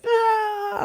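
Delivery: very high imitated child's scream; mock toddler scream. Father imitating his son screaming on the ground. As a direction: screech like a tantrum toddler. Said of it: "He's just screaming".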